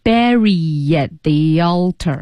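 "Bury at the altar" slowly as "Barry-yat thee-yaltar"; careful, drawn-out "Bury at the altar"; slow linked repeat. Shown as a demonstration. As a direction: echo with a y glide between "Bury" and "at". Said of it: "慢慢地多练习这一段".

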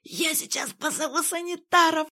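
high, strained nurse's threat; wheezing nurse. A narrator's reading. Nurse to the patient, a high wheezing threat. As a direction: croak out the threat to call orderlies. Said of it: "захрипела медсестра".

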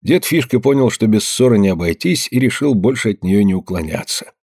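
plain reading voice

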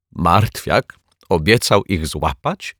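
slow, choked with amusement; choking out. A narrator's reading. Detective amused at his rival's promise, choking out. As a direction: splutter it out slowly through amusement. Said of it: "wykrztusił".

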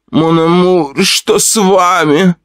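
high, anxious gasp of concern; a wife suddenly frightened for her husband; worried cry to her breathless husband; alarmed. Acted. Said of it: "встревожилась Аграфена Ивановна".

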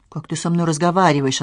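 usual speaking voice

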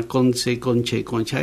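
CONCE slides into CONCHE, then CONCHA; step-by-step sound change. Shown as a demonstration. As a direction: show conce turning into conche and concha, S becoming CH. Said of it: "y ahí va, ahí se va haciendo". (conce, conche, concha: cambio de sonido paso a paso)

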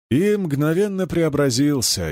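usual speaking voice

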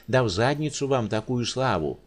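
mild mock yell at the doctor; understated angry outburst. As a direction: snap back, indignant. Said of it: "заорал Волынский".

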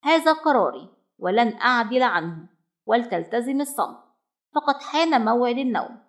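a touch of strictness, final and decided; firm. Acted. Mother ends the argument with her son, firmly. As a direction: close the matter like a strict parent. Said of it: "قائلة في شدة".

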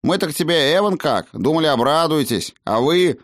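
high, aggrieved little voice; offended halfling. Acted. Halfling who expected the master to rejoice, aggrieved. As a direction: reproach him in a piping, hurt tone.

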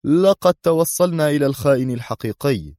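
high, decisive announcement; firm. A narrator's reading. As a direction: state the verdict firmly. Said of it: "مضيفا في حزم".

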